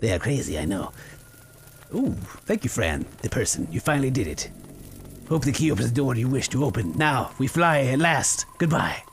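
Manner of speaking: a strange creature bidding farewell, low and hushed; creepy tree creature. Acted. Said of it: "He's like".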